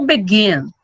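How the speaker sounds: "begin" demonstrated with a weighty final syllable; stress on second syllable. Shown as a demonstration. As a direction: begin with the last syllable strong. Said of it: "O begin é o mais forte".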